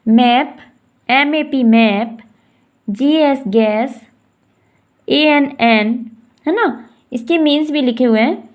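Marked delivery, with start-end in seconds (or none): 0.1-5.9 ए एस एच ऐश spelled letter by letter, slow; spelling out words. Shown as a demonstration. Teacher spelling words for students, slow and clear. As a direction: spell each word slowly, then say it. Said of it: "next में है".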